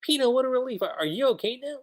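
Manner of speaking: high, bright little robot voice; lightly voiced relieved little robot; Pino voice. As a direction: squeak it out like a small robot. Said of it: "Pino's like".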